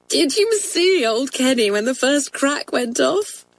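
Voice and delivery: bursting with mischief; excited schoolgirl. A narrator's reading. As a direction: schoolgirl gossiping to classmates, excited. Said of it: "cried Joan".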